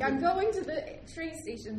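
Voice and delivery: slow, high, loud; stubborn insisting. Retold or imitated. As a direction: spell it out stubbornly. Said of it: "was like".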